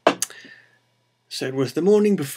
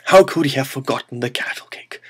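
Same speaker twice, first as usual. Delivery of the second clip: mock disbelief, a little louder; flabbergasted; 2 semitones higher, 5 dB louder than usual. Priest hears about the forgotten cattle cake, mock flabbergasted. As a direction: act mildly aghast at the blunder. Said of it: "absolutely flabbergasted".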